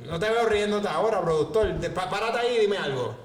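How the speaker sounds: jokingly calling out the producer. Real, not acted. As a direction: call the producer out, teasing. Teasing the producer.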